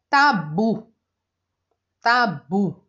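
tabu with weight on the final bu; teacher sounding out tabu, bu strongest; stress on BU. Shown as a demonstration. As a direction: lean on the last syllable of tabu. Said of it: "o bu é o mais forte".

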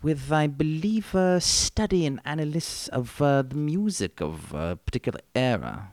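lightly voiced genteel English author, unhurried; a hint of a polite old British gentleman plugging the show; Ian Fleming. Ian Fleming praising the podcast hosts to listeners, in a lightly voiced genteel British manner. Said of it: "Ian Fleming's in the house".

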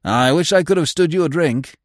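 hearty voice with a touch of wistfulness; wistful. A narrator's reading. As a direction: lament a lost chance, mildly. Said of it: "said the other wistfully".

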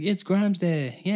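high, loud crowd cheer; hammed-up celebration; mock cheering.

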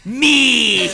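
loud, high, drawn-out shout; high-pitched real holler; gleeful shout. Real, not acted. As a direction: yell it proudly as the obvious answer. Calls out answer to question.

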